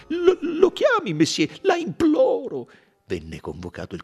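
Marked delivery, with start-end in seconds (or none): 0.1-2.7 high, loud, desperate plea; begging. Acted. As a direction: implore him, voice pitched high with fear. Accused man begs.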